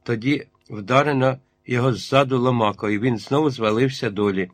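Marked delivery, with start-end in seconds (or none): none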